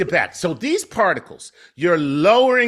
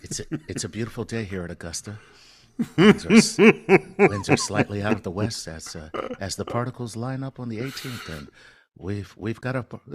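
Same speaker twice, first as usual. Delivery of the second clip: hushed golf announcer; 4 semitones lower than usual. Pretend. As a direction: call it like the Masters on TV, half laughing. Golf commentary at Augusta, laughing.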